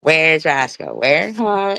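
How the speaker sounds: calling out for the dog. Retold or imitated. Owner calling out anxiously for her missing dog. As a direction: shout into the house for the lost dog.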